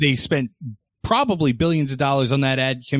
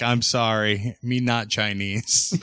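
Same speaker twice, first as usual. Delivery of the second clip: mock Asian accent; 3 semitones lower, 3 dB quieter, slower than usual. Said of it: "his apology was like".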